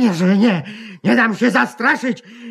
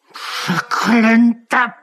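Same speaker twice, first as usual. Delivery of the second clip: cursing in despair; much slower than usual. Acted. Writer despairs alone.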